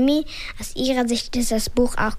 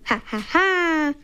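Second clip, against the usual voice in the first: slow, forced ha ha ha; embarrassed laugh that rings hollow; fake laugh; 5 semitones higher than usual. A narrator's reading. Father covers his embarrassment before his boss, forced laugh. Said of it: "gar kein echtes Lachen".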